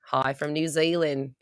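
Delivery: slow, put-on New Zealand accent. Shown as a demonstration. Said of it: "That's my New Zealand accent".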